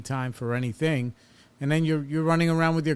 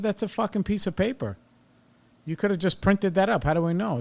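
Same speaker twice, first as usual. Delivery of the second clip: retold angry yelling; 6 semitones higher than usual. Caller retelling how he yelled at the billing lady, pitched-up mock yell. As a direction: replay the heated pushback, voice jumping high. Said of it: "I yelled at that lady".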